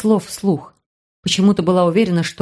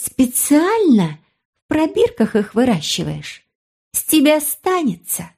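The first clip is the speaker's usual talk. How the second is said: mocking girl; 6 semitones higher than usual. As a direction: tease him, pitched high. Sister mocking brother.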